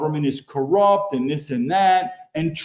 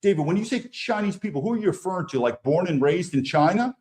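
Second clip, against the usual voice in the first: imagined skeptic voice. Retold or imitated. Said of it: "Now you might say".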